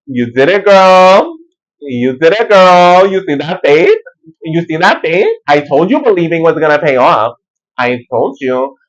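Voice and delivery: proud cheer. Retold or imitated. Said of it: "And he's like".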